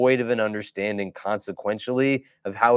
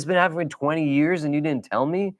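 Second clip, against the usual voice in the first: shocked disbelief; 5 semitones higher, faster than usual. Retold or imitated. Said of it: "He says".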